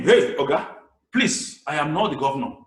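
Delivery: lightly acted exasperated reply; a hint of pleading exasperation; mildly acted plea, not my fault; dramatized retort. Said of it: "with the effect of drama".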